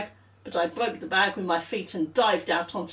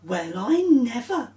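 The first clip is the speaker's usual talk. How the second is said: exclaimed; 3 semitones higher, 3 dB louder than usual. Acted. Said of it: "exclaimed Celia".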